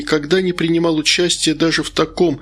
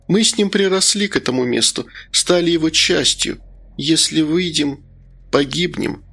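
lightly voiced woman's part, pitched up; confiding, wistful hostess; 3 semitones higher than usual. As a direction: confide apologetically, turning gently sorrowful. (доверительно, с лёгкой грустью)

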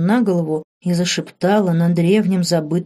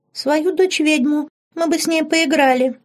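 put-on much higher child's voice; little girl voice; 10 semitones higher than usual. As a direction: sound like a small girl wanting a playmate. Girl voice within old witch.

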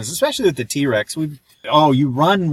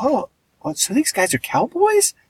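high, incredulous squeak rising even higher; mock surprise; 13 semitones higher than usual. Viewer mocking his own shock at cowboy dinosaurs, high squeaky disbelief. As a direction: play up the baffled disbelief, much higher.

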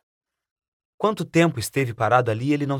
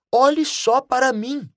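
higher, slow amazed cry; excited exclamation; 10 semitones higher, slower than usual. A narrator's reading. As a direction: marvel at your own reflection.

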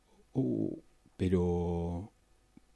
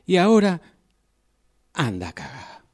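angry outburst; 11 semitones higher, 10 dB louder, faster than usual. Acted.

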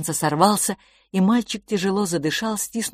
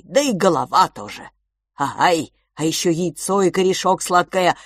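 eager creature; 2 semitones higher, 5 dB louder than usual. Acted. Creature eagerly agrees about food. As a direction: savour the craving. Ao lists foods greedily.

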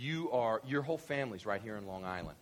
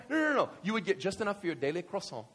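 usual speaking voice

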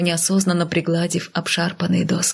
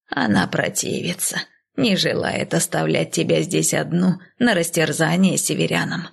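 put-on a touch of a worried elderly voice; lightly voiced old woman; old nanny. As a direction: speak as the uneasy old nanny.

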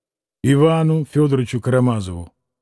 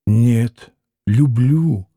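fervently; 4 semitones lower, much slower than usual. A narrator's reading. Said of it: "горячо ответил Алёша".

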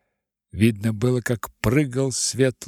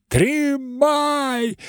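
high, loud drawn-out yell; howl; 4 dB louder than usual. Acted. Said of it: "с воплем".

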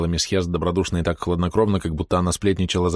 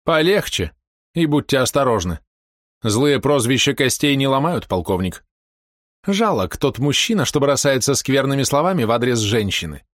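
high, sneering spider woman; mocking villainess; 6 semitones higher than usual. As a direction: taunt him coolly from above. Villainess mocks the colonel. (насмешливая злодейка)

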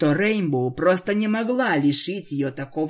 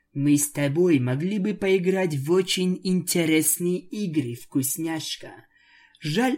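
seductive vampire. Acted. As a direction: lure her closer. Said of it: "предложила Аланис".

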